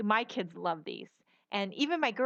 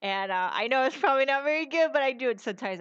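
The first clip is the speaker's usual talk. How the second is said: put-on Boston accent; 4 semitones higher, 5 dB louder, faster than usual. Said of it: "talk in my New York or my Boston accent".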